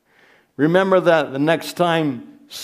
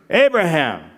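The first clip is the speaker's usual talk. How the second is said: God's summons, read aloud; summoning someone from afar; calling out a name; 3 semitones higher, 3 dB louder than usual. Acted. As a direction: call out the name, high start falling away. Voices God calling out to Abraham.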